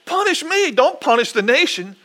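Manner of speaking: lightly acted plea, lifting high on the key words; interceding David. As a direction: plead with God on the people's behalf. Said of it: "David's words to the Lord as he's interceding".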